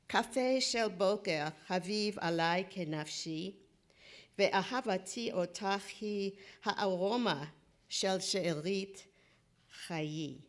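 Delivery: Hebrew poem recital in short phrases; poetry reading. Acted. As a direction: recite line by line, leaving pauses.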